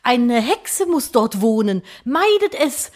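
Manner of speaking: hoch, langsam, feierlich warnend; Märchenerzähler. Acted. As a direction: wie ein Dorfprediger im Mittelalter. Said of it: "Leute ... denken sich so". (altertümlicher Warnruf)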